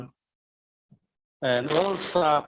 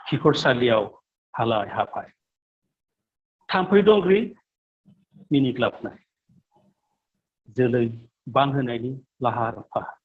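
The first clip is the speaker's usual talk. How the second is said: poem recitation; much faster than usual. Acted. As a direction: recite a poem in short phrases with deliberate pauses. Recites own Bodo poem.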